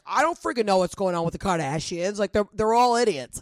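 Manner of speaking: angry Italian voice. Pretend. Fiancé Jeff on the podcast ranting about the Kardashians, mild mock Italian anger. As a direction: lightly do the fiancé as a grumpy Italian guy ranting. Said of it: "in his angry Italian voice".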